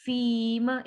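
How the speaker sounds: फीमा with long "fii" and short "ma"; stretched fii. Shown as a demonstration. Teacher showing the stretch, फीमा with long "fii". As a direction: hold the first vowel of फीमा, cut the second short. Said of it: "मीम को सिर्फ हल्का सा हम touch".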